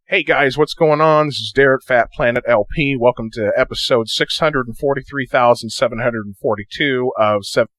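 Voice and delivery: intro played back with extra bass. Shown as a demonstration. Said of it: "It gives it a little bit more raspiness and bass".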